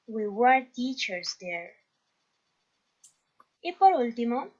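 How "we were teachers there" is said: slow, careful English sentence; teacher reading the answer to the class slowly; slow model reading. Shown as a demonstration. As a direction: read the answer slowly for learners. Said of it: "teacher reads completed answer".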